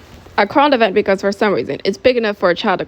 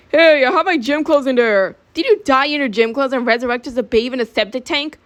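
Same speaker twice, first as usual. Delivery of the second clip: indignant quarrel; 5 semitones higher than usual. Acted. Boys quarrel over the backpack.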